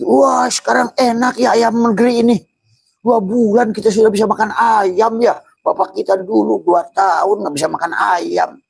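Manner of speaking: high, loud, giddy mock enjoyment; carefree delight. Preacher mocking a careless man enjoying grapes, giddy high voice.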